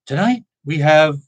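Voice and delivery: lightly mimicked TV host intro; slow, drawn-out presenter impression; Rod Serling. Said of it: "him ed-, introducing the painting".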